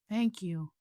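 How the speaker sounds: small, soft thank-you; a hint of a delicate, squeaky voice; sweet squeaky voice. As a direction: imitate a sweet little spirit voice, lightly. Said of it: "I heard it in this squeak, uh, beautiful, sweet voice".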